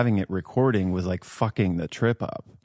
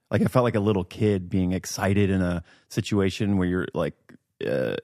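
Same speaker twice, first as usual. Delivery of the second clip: ordinary delivery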